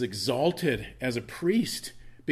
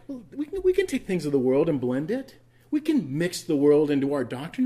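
mocking compromisers; 4 semitones higher, 6 dB louder than usual. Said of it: "a group of people that say".

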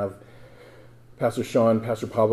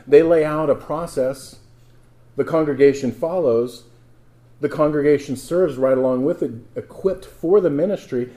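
louder, raised-pitch scripture reading; forceful preaching; 4 semitones higher, 6 dB louder than usual. Real, not acted. Preacher reading Ephesians to the congregation, forceful and emphatic. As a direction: drive each phrase out to the congregation.

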